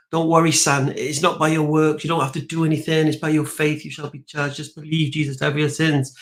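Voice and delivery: gently reassure, only lightly in character; lightly voiced reassuring Paul. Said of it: "And Paul says to you".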